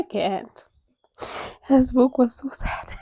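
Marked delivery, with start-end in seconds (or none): 1.7-2.9 breathless tearful whisper. Real, not acted. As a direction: barely voice it. Choked up after crying.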